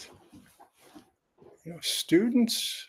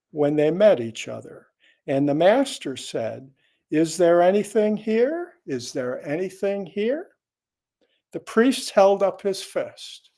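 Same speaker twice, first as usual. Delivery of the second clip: measured, projected reading of a teaching tale; koan story narration; 2 semitones higher, 5 dB louder than usual. Acted. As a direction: read the old Zen story aloud, phrase by phrase. Reads a koan aloud.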